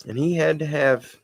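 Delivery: reading a written story aloud; read-aloud storytelling with measured phrasing; story narration. A narrator's reading. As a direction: tell it as a homespun story, evenly. Reads submitted story aloud.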